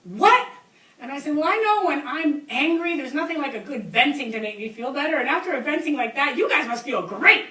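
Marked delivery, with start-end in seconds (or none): 0.0-0.5 high, loud one-word holler; yelling up. Retold or imitated. Hunters answering the woman in the tree, puzzled yell up. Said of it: "they yelled up". 1.4-7.4 raised, louder calling voice; yelling down. Retold or imitated. Tree sitter teasing the shooters below, hollering down. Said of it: "I yelled down to them".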